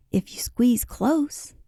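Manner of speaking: slow, breathy, eager hush; eager whisper. A narrator's reading. Peter offering room in his boat, eager whisper. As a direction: whisper the invitation slowly, keen to share. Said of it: "he said eagerly".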